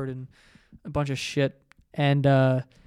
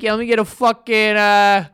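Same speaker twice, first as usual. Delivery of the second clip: redneck bar order; 7 semitones higher, 7 dB louder than usual. Retold or imitated. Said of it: "I didn't wanna be like".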